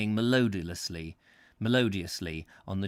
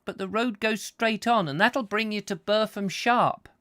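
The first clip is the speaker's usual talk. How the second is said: put-on a little country boy, much higher and louder; high urchin voice; 10 semitones higher, 5 dB louder than usual. A narrator's reading. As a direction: rattle off the directions as an eager urchin, up high. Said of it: "His high voice".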